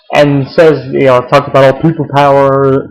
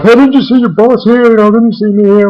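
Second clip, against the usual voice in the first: put-on high holler; retold mock scream; 9 semitones higher than usual. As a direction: imitate a boss hollering, pitched way up. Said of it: "Ace screams at him".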